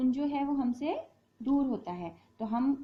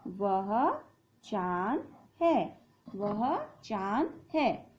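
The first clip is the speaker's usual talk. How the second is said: वह चांद है said slowly while writing; slow dictation; much slower than usual. Shown as a demonstration. Teacher writes on the board, slowly dictating. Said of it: "तो यहाँ लिखेंगे वह".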